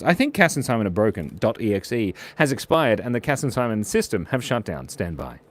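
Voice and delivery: flat machine announcement voice; robot system voice. Retold or imitated. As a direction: read it like a shutdown notice. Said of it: "Wolfie says".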